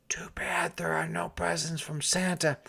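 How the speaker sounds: breathy, secretive father's whisper. A narrator's reading. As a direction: whisper it to tease the boy. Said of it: "whispered Harold's father".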